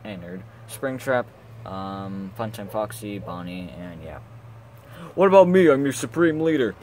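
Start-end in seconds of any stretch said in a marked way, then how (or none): 5.2-6.8 loud, high protest; indignant shout. Acted. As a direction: demand it indignantly. Left behind, protesting.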